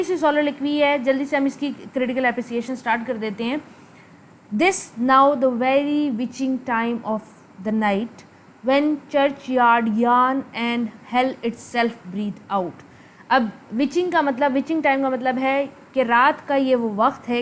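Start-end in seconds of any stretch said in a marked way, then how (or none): 4.5-12.7 very slow, word-by-word reading; measured line-by-line recital of a soliloquy; verse recitation. Acted. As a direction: read the verse out deliberately, pausing between phrases. Reads out the soliloquy.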